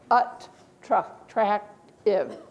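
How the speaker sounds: attractive drawn out very slowly, ending iv not I've; a teacher sounding out attractive. Shown as a demonstration. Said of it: "doesn't say I've. It says iv".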